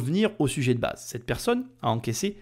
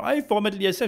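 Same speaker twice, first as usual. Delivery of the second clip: higher-pitched mock quote of other people; mimicking ISF supporters; 6 semitones higher, faster than usual. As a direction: imitate people calling for the tax. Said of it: "quand j'entends les gens". (imitation moqueuse, voix plus aiguë)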